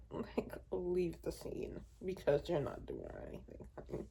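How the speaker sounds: whispered sassy dismissal, quick at the end. Real, not acted. Vlogger dismissing an annoying book boyfriend, sassy whisper. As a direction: shoo him off under your breath, honey.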